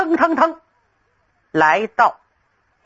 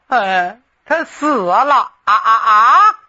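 wailing the last words out in tears; hoarse crying; 2 semitones lower, 3 dB louder, slower than usual. Acted. Xue Dingshan tells Cheng Yaojin of her death, crying hoarsely. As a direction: break into a hoarse sobbing wail. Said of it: "薛丁山哑着嗓子哭着说".

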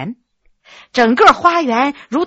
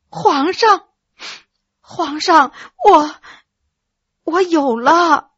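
breathy; 3 semitones higher, slower than usual. Acted. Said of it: "气声说".

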